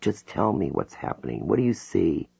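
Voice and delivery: calm her down gently. Acted. Hypnotist soothing her panicking client, calm and soft. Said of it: "I keep my voice calm".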